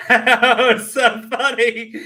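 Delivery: cracking up and barely getting it out; laughing hard. Real, not acted. Streamer to chat about the clip, laughing hard.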